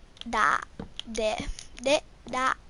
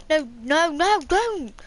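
panicked yell; 2 semitones higher, 5 dB louder than usual. Real, not acted. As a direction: shout it in panic. Game character in danger.

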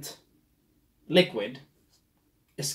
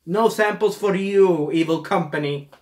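gloating taunt; 4 semitones higher, 5 dB louder than usual. Pretend. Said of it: "go in there and say".

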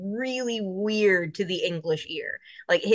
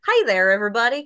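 lightly put-on country accent, louder; full-on country accent; 5 dB louder, faster than usual. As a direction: greet the crowd in a folksy country accent. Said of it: "kinda accent".

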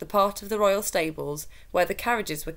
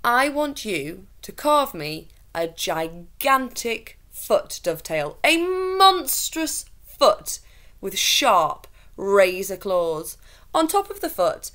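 louder, slow, relishing order; scheming lord; 5 semitones higher, 5 dB louder than usual. A narrator's reading. Lord ordering a fake monster foot, slow and relishing. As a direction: dwell on the monstrous details.

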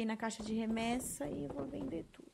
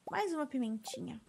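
usual speaking voice

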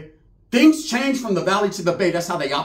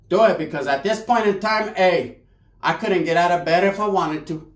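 lightly voiced whiny aunt; 3 semitones higher than usual. Tia voiced begging from bed.

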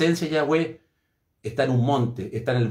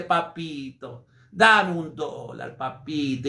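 put-on sweet coaxing child; 2 semitones lower, much slower than usual. Preacher imitating a hugging child sweetly asking for a dollar. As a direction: coax daddy tenderly, drawn out. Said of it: "te abraza y dice".

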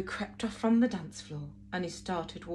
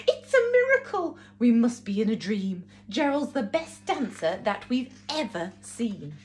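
amazed shout; 4 dB louder than usual. Acted. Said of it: "They shouted".

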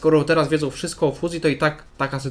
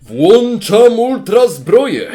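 high, loud, drawn-out hype yell; excited shouting; 9 semitones higher, 8 dB louder, much slower than usual. Acted. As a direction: stretch the words into a huge anime shout. Excited reaction to ultra armour attack. (przeciągły, podekscytowany krzyk)

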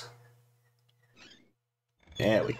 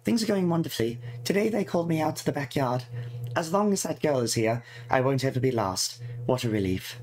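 lightly voiced fretful girl reading her diary; 4 semitones higher than usual. Player voicing the game character's diary entries, lightly fretful. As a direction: read it as a worried schoolgirl's diary, lightly put on.

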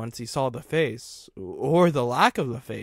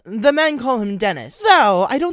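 very high, loud, hurried caller; high nervous caller; 11 semitones higher, 12 dB louder than usual. Acted. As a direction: babble nervously into the voicemail.

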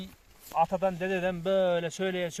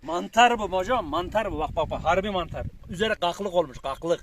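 excited; 6 dB louder than usual. Real, not acted. Showing off big mushroom.

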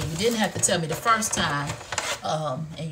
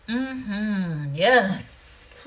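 usual speaking voice

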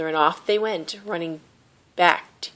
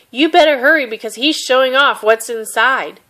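urgent call; 6 semitones higher, 6 dB louder than usual. Acted. Zhang calling urgently across market.

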